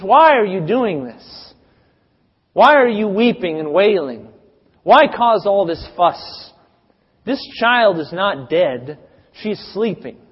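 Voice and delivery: slow, deliberate, earnest questioning of the mourners; slow earnest rebuke. Acted. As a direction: lean into each why, unhurried and grave. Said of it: "And Jesus enters and says".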